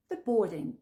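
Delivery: "boarding" said "bording", no A sound; silent A. Shown as a demonstration. Teacher corrects learners on boarding, silent A. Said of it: "Ne prononce pas le A".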